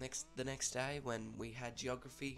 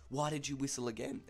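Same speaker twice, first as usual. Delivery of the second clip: slightly raised, louder demand; mock angry teacher; 4 semitones higher, 5 dB louder than usual. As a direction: imitate an enraged teacher confronting a pupil. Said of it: "rage on her face".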